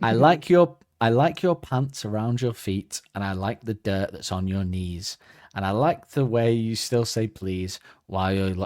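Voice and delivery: slow singsong nursery rhyme reading; children's nursery rhyme. Shown as a demonstration. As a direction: read it like a kids show host. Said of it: "reading it like a children's nursery rhyme".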